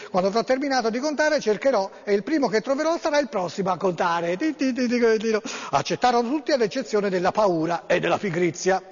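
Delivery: an even, storytelling read-aloud voice; story narration. Acted. Host reading an emailed fable to listeners, storytelling voice.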